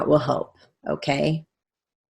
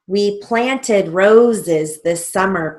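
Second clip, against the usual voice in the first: slow dictation; 2 semitones higher, 3 dB louder, slower than usual. Shown as a demonstration.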